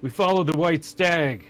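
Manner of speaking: emphatic refusal, then a proclamation; Sturm. Acted. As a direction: declare it like a stubborn, fevered knight. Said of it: "He's like".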